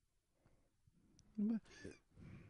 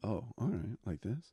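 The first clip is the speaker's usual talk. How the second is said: normal son voice; 6 semitones lower, 7 dB quieter than usual. Acted. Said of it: "what do you want me to sound like".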